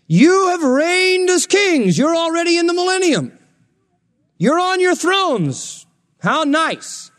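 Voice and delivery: very high, stretched mock awe; sarcastic. Paul to Corinthians on their thrones, sarcastic. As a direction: hail them falsely in long soaring tones.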